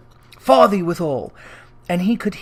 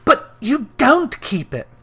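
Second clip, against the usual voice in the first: nephew; 6 semitones higher than usual. A narrator's reading. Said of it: "repeated Scrooge's nephew".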